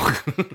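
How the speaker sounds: short embarrassed laugh; verlegenes Lachen. Real, not acted. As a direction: laugh nervously. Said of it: "mit einem Lacher kommentiert". (nervöses Lachen)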